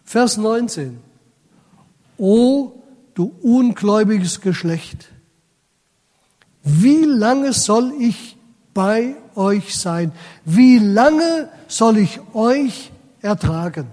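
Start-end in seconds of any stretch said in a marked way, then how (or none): 2.2-13.9 slow, louder lament of a weary Jesus; stern rebuke. Acted. Preacher voicing Jesus rebuking the unbelieving crowd, slow and stern. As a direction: let the frustration ring out slowly.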